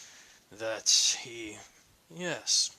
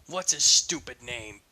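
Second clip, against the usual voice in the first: higher, louder angry rant; furious questioning; 6 semitones higher, 3 dB louder than usual. Acted. Eugene yelling at Ignatius about his rampage, furious. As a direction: let the worry boil into yelling. Heated confrontation escalating.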